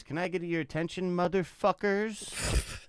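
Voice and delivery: high, drawn-out party DJ shout into the mic; DJ hype voice. Retold or imitated. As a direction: ham up a cheesy club DJ grabbing the crowd. DJ hyping crowd on mic.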